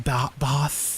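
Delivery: British "bath" with a long ah; Queen's English. Shown as a demonstration. Streamer guessing how the English say it, British accent. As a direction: try a posh British "bath". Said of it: "What do they say, like".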